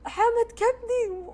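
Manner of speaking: high, loud, slow complaint; imitating the sister feeling sick; upset sister. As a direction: drag out a queasy groan. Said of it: "أختي قالت".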